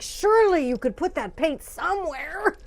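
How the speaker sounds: mild reproach. Retold or imitated. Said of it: "I'm like".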